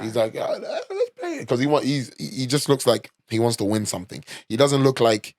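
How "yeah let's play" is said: high, slow, drawn-out mock voice; sly hustler imitation. Pool hustler agrees to play the tourists, slow, high and smug.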